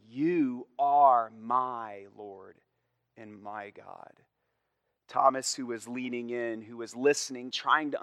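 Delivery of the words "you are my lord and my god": louder, slow, every word weighted; slow emphatic confession. Acted. Thomas confessing to the risen Jesus, slow and emphatic. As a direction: declare it slowly as a vow. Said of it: "Thomas is saying".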